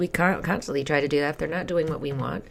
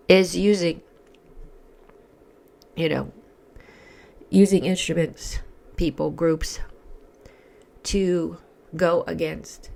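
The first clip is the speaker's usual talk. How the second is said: frog voice. Real, not acted. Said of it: "sorry for my frog voice".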